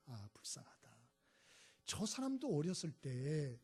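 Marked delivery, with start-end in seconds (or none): 0.1-0.9 whispered "불쌍하다", breathless with pity. Retold or imitated. Watching the killers' stories, whispered pity. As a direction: let the pity slip out under the breath.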